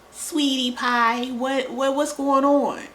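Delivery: high, slow, saccharine sarcasm; high sugary mock concern at a grown adult; mock sweetness. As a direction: coo it with fake concern. Mocking fake sweetness.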